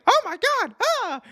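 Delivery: very high squealing cry; Jerry Lawler impression. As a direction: squeal like an excited commentator. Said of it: "Jerry Lawler is like".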